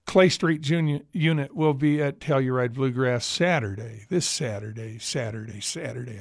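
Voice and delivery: booming announcer with a fading echo; monster truck rally announcer. Pretend. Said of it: "I wanna sound like a monster truck rally here".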